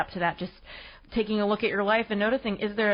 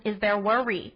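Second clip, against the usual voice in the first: "worry" said again plainly, with a laugh; retry "Is there worry?" without the accent, giggling; laughing redo. Real, not acted. Podcaster repeats "Is there worry?" to listeners, laughing at herself. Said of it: "Did I just sound like I had a New York accent?".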